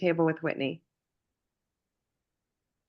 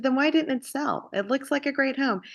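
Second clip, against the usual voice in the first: retold teasing question; 8 semitones higher than usual. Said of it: "I said".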